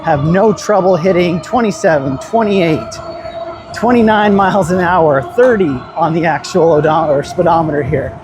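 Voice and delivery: talking into a windy microphone; wind on mic. Real, not acted. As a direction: wind noise over the mic. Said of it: "you can probably hear the wind noise in the microphone".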